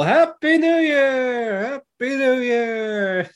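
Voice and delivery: slow, high, sing-song New Year's cheer; drawn-out cheer. Retold or imitated. The gang cheering in the New Year, slow and sing-song. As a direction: stretch each word out, high and bright.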